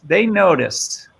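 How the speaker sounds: slow, grand stage delivery; milk it like a hammy stage actor; thespian voice. Shown as a demonstration. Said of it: "give me your best thespian voice".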